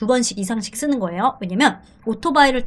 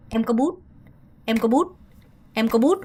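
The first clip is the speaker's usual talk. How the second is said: faster take; much slower than usual. Shown as a demonstration. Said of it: "조금 더 박자라면".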